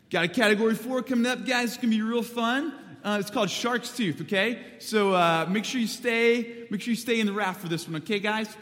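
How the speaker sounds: high, loud, laid-back surfer dude twang; surfer bro accent. Retold or imitated. Raft guide hyping up the boys before Shark's Tooth, high surfer bro voice. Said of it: "I don't know why he had that accent".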